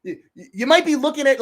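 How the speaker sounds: ordinary talk, nothing marked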